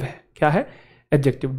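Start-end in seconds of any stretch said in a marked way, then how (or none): 1.1-1.6 "एडजेक्टिव" with no D before the J; silent D. Shown as a demonstration. Teacher answering own check question, "एडजेक्टिव" with silent D. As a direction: say "एडजेक्टिव" as a-JEK-tiv. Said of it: "डी silent है".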